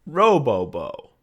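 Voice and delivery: slow singsong demo of a funny sound; savored catchphrase. Shown as a demonstration. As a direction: draw out each syllable with relish. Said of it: "Say it at home right now".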